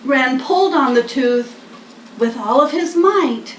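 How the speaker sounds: lively picture-book reading; reading to children. A narrator's reading. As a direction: read it like a bedtime story for little ones.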